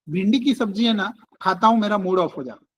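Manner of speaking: calm, gentle explaining; gently. Shown as a demonstration. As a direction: say it kindly, no blame. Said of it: "देखो मैंने कैसे बोला". (प्यार से, शांत)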